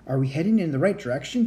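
fast, out of breath from running; panting. Acted. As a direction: pant out the question.

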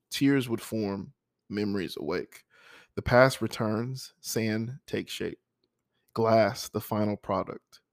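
measured poem reading with pauses between lines; poem recitation. Acted. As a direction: recite a personal poem, line by deliberate line. Reads their own poem.

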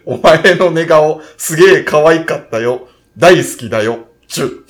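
slow, mock-romantic anime lover; anime heartthrob line. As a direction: croon it like a hammed-up anime boyfriend. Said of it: "アニメキャラが頭に浮かんでしまうんよ".

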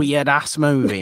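laughing through the words; giggling as you say it. Real, not acted. Laughing at weird movie.

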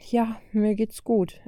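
slow, whispered and small; meek whisper. A narrator's reading. Vajo whispers to her brother from behind, meek and slow. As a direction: barely admit it in a hush. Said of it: "ertönte Vajos Stimme plötzlich kleinlaut".

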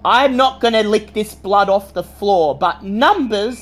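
put-on high sing-song little girl; young girl voice. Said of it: "whistles her sing-song voice and says".

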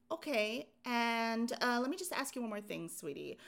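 sugary phone agent piling on sweeties; a hint of the sweet-talking survey lady; syrupy survey caller. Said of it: "every single thing was".

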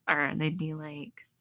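ordinary talk

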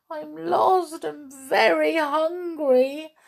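high, slow plaintive wail; crying kitten. Acted. Lost kitten pleading with the mice, high drawn-out cry. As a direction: whimper it like a lost little cat. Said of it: "the cat cried".

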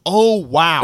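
a cop half laughing at the blade; mock impressed wow, laughing. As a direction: superior officer admires the knife, amused mock awe. Superior officer sees the knife.

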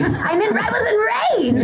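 laughing through the words. Real, not acted. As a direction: break into laughter mid-line. Admitting rage while laughing.

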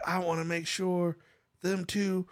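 mock villain vow. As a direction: declare it with stretched, exaggerated menace.

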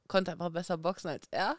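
words breaking into a laugh. Real, not acted. Boxer laughing about beating her younger brother. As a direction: laugh through the end of the brag.

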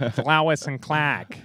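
put-on Lewis said as Lois with a slow Boston accent; "Lois and Clark" in a slow Boston voice, dropping the r. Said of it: "how to do a Boston accent".

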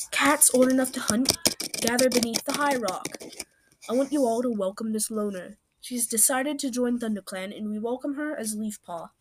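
a mild mock announcement to the gathered clan; calling the clan. Leader mildly calling the clan together to welcome her. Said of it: "yelled to the cats".

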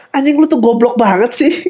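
high-pitched mock exasperation; mock angry. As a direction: act out being fed up, pitched high. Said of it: "dan lu marah kayak". (pura-pura marah, nada tinggi)

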